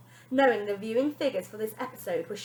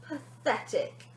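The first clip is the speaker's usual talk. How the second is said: slow, drawn-out scorn; nanny sneering at mother; sneered; 3 semitones higher, much slower than usual. Acted. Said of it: "sneered Wonder Nanny".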